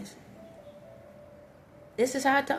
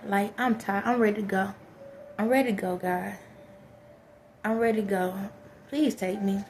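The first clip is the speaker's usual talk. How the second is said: crying, worn out; 5 dB quieter than usual. Real, not acted. Worn-out prayer, tired of crying.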